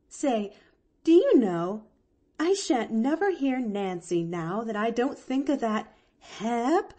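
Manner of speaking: lightly voiced rustic Nancy, tickled; a touch of amazed amusement; amused Nancy. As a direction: marvel in a folksy, emphatic way.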